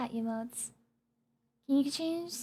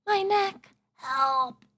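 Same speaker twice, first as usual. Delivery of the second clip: mock cry for help; much slower than usual. Mock complaint about neck.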